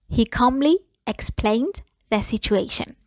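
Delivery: calm whispered model sentence. Shown as a demonstration. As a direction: breathe the line out without voice. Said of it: "repeat said in a whisper".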